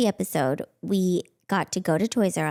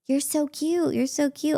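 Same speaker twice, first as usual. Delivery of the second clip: higher, sing-song creepy flattery; creepy stranger; 7 semitones higher than usual. Retold or imitated. Stranger cooing at a little girl, sing-song and creepy. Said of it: "he was like".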